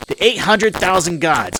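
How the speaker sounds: high, loud and drawn-out declaration; indignant proclamation. Acted. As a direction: proclaim it like an outraged mob boss. Same line redone in congressman's rant.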